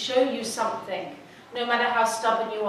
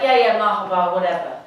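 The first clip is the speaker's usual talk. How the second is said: loud, low, curt yeah yeah; stressed traveller brushing off a greeting; dismissive brush-off; 3 semitones lower, 6 dB louder than usual. Retold or imitated. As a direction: shrug him off impatiently. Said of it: "when you're stressed and angry".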